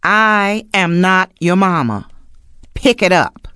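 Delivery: slow, loud no-nonsense scolding; stern mama scolding. Acted. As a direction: scold like a fed-up mother. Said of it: "I want you to say just one thing to them".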